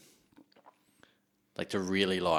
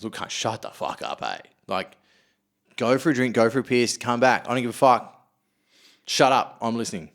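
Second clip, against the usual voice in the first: louder firm shut up; retold telling off; 4 dB louder than usual. Turning round at a comedy show to silence the heckler, loud and firm. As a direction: bark it back over your shoulder at the heckler. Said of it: "I turn around".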